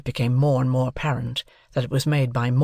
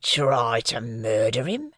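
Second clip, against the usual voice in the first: disdainful; 2 semitones lower, slower than usual. A narrator's reading. Convict scorning the accusation, slow disdain. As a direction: scoff at the idea. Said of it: "said my convict disdainfully".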